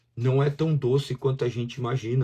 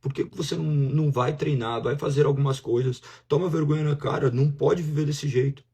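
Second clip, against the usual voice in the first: scolding voice; 4 semitones higher than usual. Acted. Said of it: "a outra voz fala assim".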